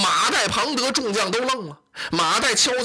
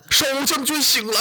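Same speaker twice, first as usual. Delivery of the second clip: calling out; 5 semitones higher than usual. Acted. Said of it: "连连呼唤".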